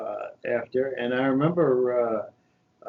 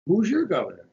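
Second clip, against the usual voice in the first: eager question; 6 semitones higher than usual. Retold or imitated. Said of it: "I'm excited".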